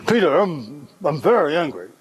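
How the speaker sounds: a touch of acted menace; mildly threatening anger. Shown as a demonstration. Coached father warns son over the car, mildly threatening mock anger. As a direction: push it forward as a mild threat. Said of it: "threaten him in a way".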